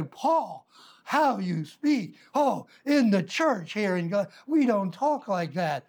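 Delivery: slow, mock-prim scolding of Paul, lightly voiced; a hint of a shocked pious member; prim churchgoer. Preacher mimics a congregant slowly scolding Paul. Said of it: "You say".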